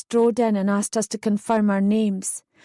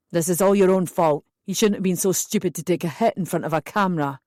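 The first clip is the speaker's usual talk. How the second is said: a hint of a lower, stern officer; lightly voiced stern policeman; 3 semitones lower, faster than usual. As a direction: scold her lightly as the policeman.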